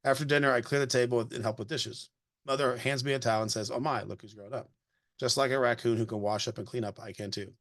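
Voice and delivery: gentle storybook read-aloud voice; reading a picture book aloud. Acted. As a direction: read it to a child, evenly paced.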